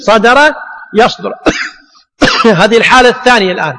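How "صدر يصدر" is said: slow demo. Shown as a demonstration. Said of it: "تقول".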